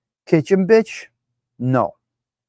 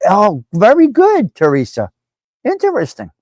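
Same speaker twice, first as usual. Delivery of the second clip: mock praise; 4 semitones higher, 3 dB louder than usual. Host mocking a chat member's condescending praise for Teresa. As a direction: play the smug condescender, then squeak up high on interesting. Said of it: "the individual who was saying".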